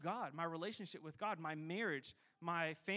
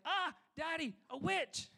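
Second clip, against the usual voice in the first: put-on high squeal of a scared little girl; imitating scared toddler; 10 semitones higher, 3 dB louder than usual. Pastor mimics his daughter crying out at bedtime, scared. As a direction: cry out like a frightened three-year-old.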